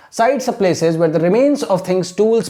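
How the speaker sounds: slow, careful English read-out; measured model reading of a textbook line; teacher reading aloud. Shown as a demonstration. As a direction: read it slowly and clearly for learners to follow. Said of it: "तो इसको मैं read करूंगा".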